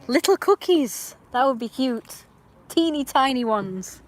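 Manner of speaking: high, loud cutesy squeal; drawn-out, high-pitched gushing; cutesy cooing. Real, not acted. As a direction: coo slowly over something tiny. Cooing over tiny cookies.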